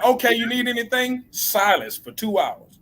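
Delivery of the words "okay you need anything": high, mock-sweet kid voice; mock polite kids. Kids checking on daddy, mock sweet voice. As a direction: play the kids asking sweetly. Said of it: "they're gonna be like".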